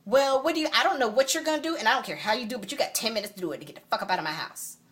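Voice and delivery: retold angry ultimatum. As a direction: lay down the deadline, then rush it. Kicking him out.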